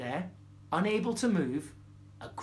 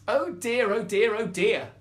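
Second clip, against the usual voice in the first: louder, desperate little mouse; desperate cry; 3 semitones higher, 5 dB louder than usual. Acted. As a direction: fret it out, panicking. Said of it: "cried the mouse".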